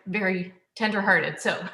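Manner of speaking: laughing through the words; small nervous laugh while speaking; embarrassed laugh. Real, not acted. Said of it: "I might get teary".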